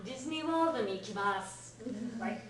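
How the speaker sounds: mock toddler emphasis. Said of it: "like a two-year-old putting emphasis".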